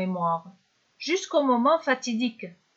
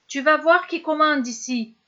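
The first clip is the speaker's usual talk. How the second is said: raised, threatening voice; angry threat; 4 semitones higher, 3 dB louder than usual. Acted. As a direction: snarl it at him in rage. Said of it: "Ivre de colère".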